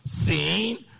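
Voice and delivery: slow, phrase-by-phrase scripture reading; drawn-out, deliberate read-along. Shown as a demonstration. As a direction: lead the congregation through it slowly, pausing between phrases. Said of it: "Now read with me slowly".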